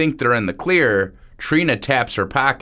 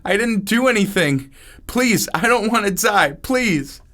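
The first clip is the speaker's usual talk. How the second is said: much higher pleading cry; crying, begging; 10 semitones higher than usual. Acted. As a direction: beg for your life through tears. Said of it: "starts crying".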